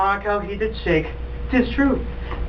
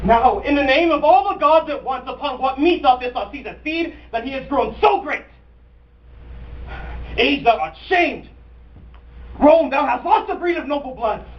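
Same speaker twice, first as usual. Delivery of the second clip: raised-pitch, rhetorical outrage; acted indignation; 5 semitones higher than usual. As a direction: build a stage tirade of indignant questions. Cassius indignantly rebukes Rome.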